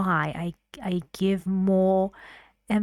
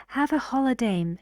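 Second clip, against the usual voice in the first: "holiday" carried higher, quick and light; intonation going up; 4 semitones higher, faster than usual. Shown as a demonstration. Teacher showing rising intonation before a person's name, higher tune. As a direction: keep the tune up through "holiday". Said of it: "your intonation still continues to go up".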